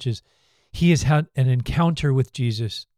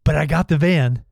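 smug grin; 3 semitones higher than usual. Retold or imitated. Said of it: "he gets a big smile on his face".

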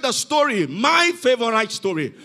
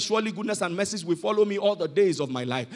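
low, soft, quick psalm recital; elderly man's recitation; 4 semitones lower, 6 dB quieter, faster than usual. Retold or imitated. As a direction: recite it quietly, lightly as the old man. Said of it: "he got to the end and said".

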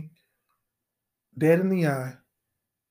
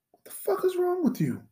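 hoarse stage whisper, pitched up high; whispered scolding; 11 semitones higher, 6 dB quieter than usual. Acted. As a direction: hiss the question in disbelief. Mock-scolding friend, whispered.

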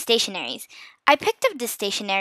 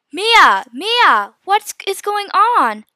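loud, high wake-up call; urgent calling; 8 semitones higher, 7 dB louder, much slower than usual. A narrator's reading. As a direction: shake your sister awake with your voice. Urgently waking her sister.

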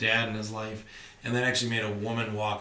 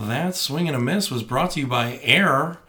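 1950s announcer; 3 semitones higher, 11 dB louder than usual. Retold or imitated. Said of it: "leaned in like fucking a nineteen fifties announcer".

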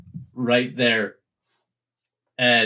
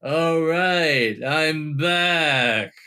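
higher, drawn-out character voice; Sir Copper Pennycoin; 3 semitones higher, much slower than usual. Acted. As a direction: announce the return in a raised, put-on voice. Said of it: "Sir Copper Pennycoin's like".

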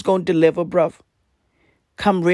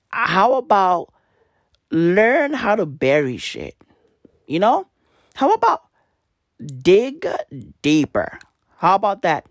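wag a finger at a whole country; exasperated scolding; 5 semitones higher than usual. Acted. Ranting at Denmark about burying minks, exasperated and mocking.

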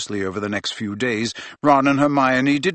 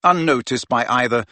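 ordinary delivery

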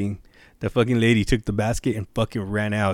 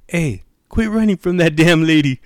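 raised-pitch mock holler; imitated calling out; 7 semitones higher, 4 dB louder than usual. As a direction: heckle the runaway as the bystander. Bystander calls to fleeing guy.

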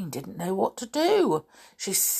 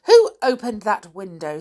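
loud, mildly cross demand; 6 dB louder than usual. Acted. Nanny questions who opened the window, crossly. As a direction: demand an answer like a stern nanny. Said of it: "said Nanny crossly".

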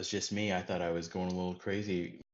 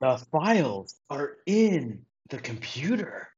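Zoolander impression; 5 semitones higher, 4 dB louder, slower than usual. Continues the Zoolander quote.

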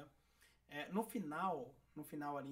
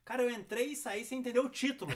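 laughing; 7 semitones higher, 8 dB louder than usual. Real, not acted. Laughs at own confusion.

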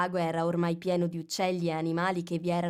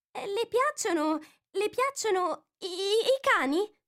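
high, faltering question; hesitant Alice; 14 semitones higher than usual. A narrator's reading. Alice nervously changes the subject. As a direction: stumble over the question.

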